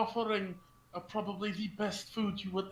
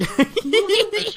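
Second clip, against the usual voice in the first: loud announcement; 13 dB louder than usual. Acted. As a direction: proudly boom out the menu. Player announces the food offering.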